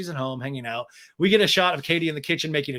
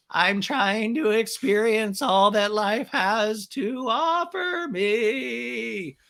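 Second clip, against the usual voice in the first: higher, very slow dreamy voice; spacey mock Raquel; 6 semitones higher, much slower than usual. Podcaster mocking Raquel's airy life wisdom. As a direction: drift out each word like you're blissed out. Raquel breathing deeply, mocked.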